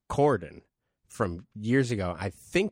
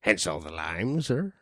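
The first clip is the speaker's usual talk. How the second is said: pirate voice; 3 semitones lower than usual. Pretend. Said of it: "I was just doing the pirate voice".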